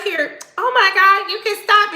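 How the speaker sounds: high, loud flustered squeal; flustered and delighted, high; embarrassed wife squealing at her husband. Retold or imitated. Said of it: "She like".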